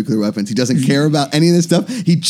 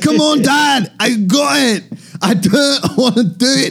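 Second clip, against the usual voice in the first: high, whiny attempt at Scottish; pitched-up comic Scottish kid; bad Scottish accent; 10 semitones higher, slower than usual. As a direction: protest to Dad in mock Scottish. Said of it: "Fuck it, I'll go Scottish".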